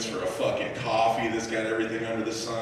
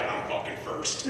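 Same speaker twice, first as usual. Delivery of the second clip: muttered claim; 10 dB quieter than usual. Retold or imitated. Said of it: "you both are like".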